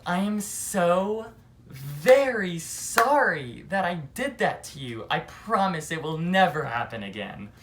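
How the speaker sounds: exaggerated, drawn-out insincere sorry; sweet and slow, not meaning a word; fake apology. To the teacher, forcing a fake apology, syrupy. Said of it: "put on this fake ass smile".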